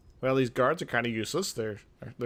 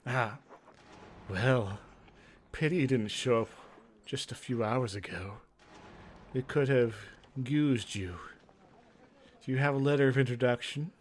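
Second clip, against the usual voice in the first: a hint of a weary mage leader; Miranda voice. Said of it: "What's a good voice for Miranda".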